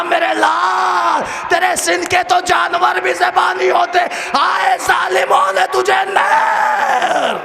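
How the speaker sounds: high, loud, slow tearful wail; weeping lament. A narrator's reading. Mother over her baby, slow high weeping wail. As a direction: drag the words out crying. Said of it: "پر رو کے ایک جملہ کہا".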